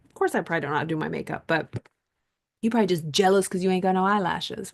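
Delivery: fast, sassy retort; sassy comeback. Pretend. Teen snapping back at the older woman, fast and sassy. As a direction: fire it back with attitude.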